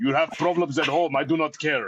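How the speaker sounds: put-on Romanian accent. Showing how a line would sound if it were romanian, romanian accent. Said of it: "if it was Romanian, it would be like this".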